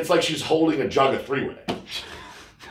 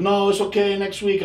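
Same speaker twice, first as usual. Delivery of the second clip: cleaning lady voice; 8 semitones higher than usual. Retold or imitated.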